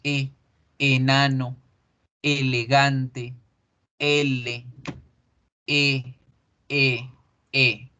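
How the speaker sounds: short open Spanish E in "E"; plain Spanish vowel E, mouth neutral. Shown as a demonstration. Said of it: "En español, esa es la forma de decirla".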